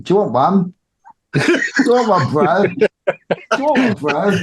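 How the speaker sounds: high, sing-song tempting offer; teasing offer. Retold or imitated. The seller tempts his mate with a coin, high sing-song. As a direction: dangle it in front of him, high and playful.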